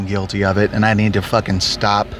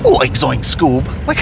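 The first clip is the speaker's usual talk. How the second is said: Shaggy. Retold or imitated. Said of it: "played Shaggy".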